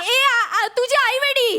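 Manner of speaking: loud, giggling mild insult; clumsy curse. Acted. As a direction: blurt out a silly curse. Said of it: "शिवी घाल त्याला".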